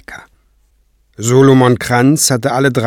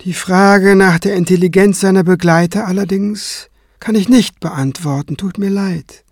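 composed higher voice, softening at the end; calm retort; 8 semitones higher than usual. A narrator's reading. Kranz slighting the high priest's companion, calmly. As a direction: deliver the insult evenly, unruffled. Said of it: "erwiderte Kranz ruhig".

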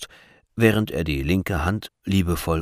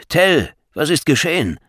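aghast question; 9 semitones higher, 8 dB louder than usual. A narrator's reading. Grandfather asks, aghast.

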